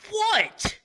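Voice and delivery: high-pitched mock-alarmed yelp; startled. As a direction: act out a jumpy, shocked question. Startled reply to the guide.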